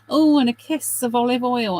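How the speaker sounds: imitating Jamie Oliver. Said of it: "he's always saying".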